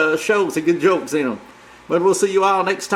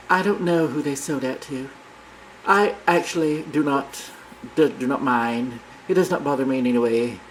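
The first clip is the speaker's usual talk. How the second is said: sweet talk; 4 semitones lower, 4 dB quieter than usual. Retold or imitated. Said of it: "say sweet things like".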